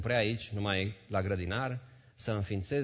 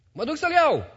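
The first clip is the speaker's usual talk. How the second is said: high, loud eager cry; Mary's eager quote; 8 dB louder than usual. Acted. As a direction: insist you'll carry him yourself. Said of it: "Mary voiced by preacher". (Maria hotărâtă, strigat înalt)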